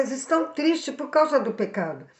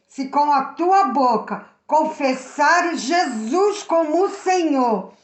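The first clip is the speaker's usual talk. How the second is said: slow scripture reading. Shown as a demonstration. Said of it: "Diz assim".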